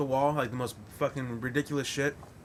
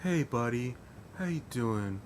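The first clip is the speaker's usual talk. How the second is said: smooth friendly lawyer; 4 dB quieter than usual. Retold or imitated. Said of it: "this is the way he talked".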